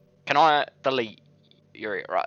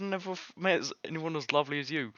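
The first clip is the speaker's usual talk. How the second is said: mocking her earlier line; 6 semitones higher, 4 dB quieter than usual. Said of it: "earlier on she said".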